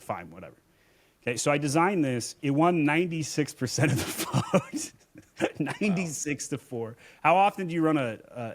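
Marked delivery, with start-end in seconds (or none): 0.0-0.6 low, soft, grudging reply; resigned giving in. Retold or imitated. Friend giving in reluctantly. 2.4-7.0 amused disbelief. Real, not acted. Laughs at lopsided result.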